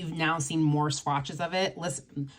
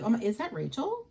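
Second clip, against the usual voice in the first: mildly higher mock surprise; imitating Ian; 6 semitones higher, faster than usual. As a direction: playfully voice a friend's fake confusion. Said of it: "he'd be like".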